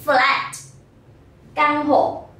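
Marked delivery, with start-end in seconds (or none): 0.0-0.5 "Flat" with the closing t clearly released; final sound pronounced. Shown as a demonstration. Teacher warns pupils not to drop endings, "Flat" with audible final t. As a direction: land the last t of "Flat". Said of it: "Đừng quên phát âm âm cuối nhé".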